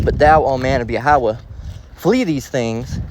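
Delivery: slow, solemn Bible reading; measured reading of scripture. Acted. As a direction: read the verse with weight. Reads scripture aloud.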